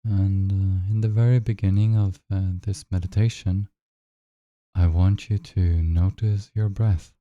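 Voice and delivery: unhurried guide with long silences between phrases; measured meditation voice, leaving room to breathe; guided meditation. Acted. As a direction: lead them gently into noticing the breath.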